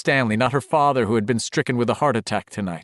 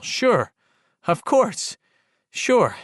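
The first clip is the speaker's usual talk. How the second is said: sarcastic; 9 semitones higher, much slower than usual. A narrator's reading. Bitter self-mocking inner sarcasm.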